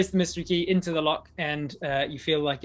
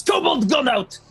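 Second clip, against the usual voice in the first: much higher, loud dim jailer; whiny jailer; 11 semitones higher, 10 dB louder, slower than usual. Acted. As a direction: wail it out like a panicked dim guard. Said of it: "He goes".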